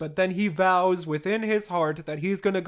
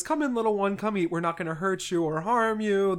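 coaxing, slightly raised pitch; lightly acted reassurance for a little one; gentle coaxing; 3 semitones higher than usual. Petya invites the French boy in to eat, coaxing.

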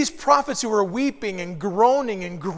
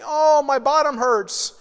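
put-on slow, whiny, higher old lady; complaining nursing home resident; 5 semitones higher, 4 dB louder, slower than usual. Preacher imitating a resident at worship, mock whine. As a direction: moan it like a resident mid-lesson. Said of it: "they're just saying".

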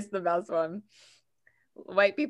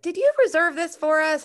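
put-on old man quote; 10 semitones higher, 6 dB louder than usual.

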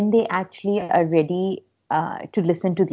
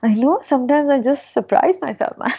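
playful bragging, pitched up; mock smug; 5 semitones higher than usual. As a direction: show off with a wink. Jokingly boasting about being smart.

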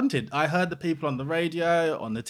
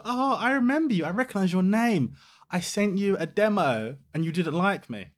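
high, sing-song sweetly pointed; sweet-as-pie call-out; mock sweet confrontation; 5 semitones higher than usual. Retelling calling out the station manager, sweetly pointed. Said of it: "And I said to him".

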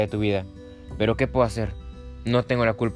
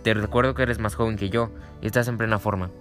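annoyed. Acted. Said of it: "resopló con fastidio".

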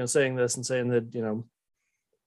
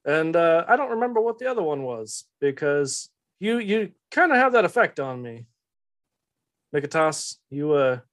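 put-on Southern-accented boss gently scolding; Telamon. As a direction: lecture him in a mild Southern accent. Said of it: "Southern accent".

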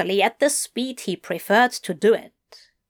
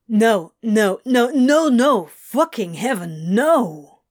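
loud, frantic no; frantic refusal; 2 semitones higher, 5 dB louder than usual. Acted. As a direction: refuse in a panic. Crowley pounding wheel, refusing.

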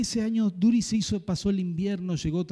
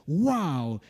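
dry wow; 3 semitones lower than usual. Real, not acted. Reacts to anointed credit cards.

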